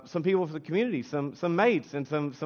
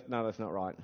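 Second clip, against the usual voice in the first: low, soft dismissal; wife's correction; 8 semitones lower, 10 dB quieter than usual. Retold or imitated. Preacher quoting wife on his accent, low-key correction. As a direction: correct him quietly and drop the pitch. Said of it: "she goes".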